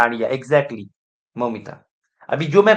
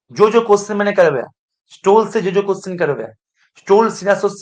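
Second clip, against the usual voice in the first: louder, faster push; emphatic insistence; 4 semitones higher, 5 dB louder than usual. Real, not acted. Teacher pressing students to revise every question, loud and quick. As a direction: drive it home firmly.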